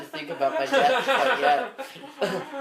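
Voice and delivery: high-pitched mock panic. Real, not acted. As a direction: squeak it in mock alarm. Panicking jokingly about age.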